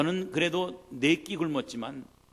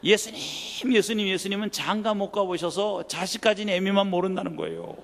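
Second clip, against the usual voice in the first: loud, insistent quote of the prayer; a preacher loudly repeating his mother's words; emphatic retelling; 4 semitones higher, 6 dB louder than usual. Retold or imitated. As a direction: hammer the prayer home to the crowd. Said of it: "이런 참남한 기도를 평생 들어본 적이 없어요".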